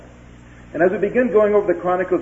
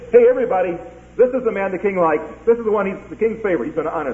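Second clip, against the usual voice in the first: calling out to the crowd; 6 semitones higher, faster than usual. Acted. Haman proclaiming through city streets.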